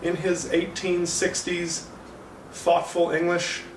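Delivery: high, slowed, puzzled voice; baffled, squinting at the screen; confused viewer. Retold or imitated. Viewer lost in Lincoln's old-fashioned speech, puzzled. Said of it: "Sometimes you're going".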